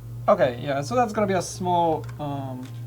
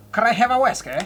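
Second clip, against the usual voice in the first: higher louder Scottish brogue; Scottish accent; 6 semitones higher, 5 dB louder than usual. Retold or imitated. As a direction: ask for a whiskey in Scottish accent. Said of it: "Scottish accent".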